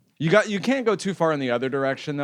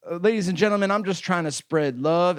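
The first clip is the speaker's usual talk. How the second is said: lightly voiced subway crazy guy, pitched up; imitating train preacher; 4 semitones higher than usual. Crazy guy addressing train passengers, imitated announcement. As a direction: announce it to the carriage, mildly hammed-up. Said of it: "it was a crazy guy on a train".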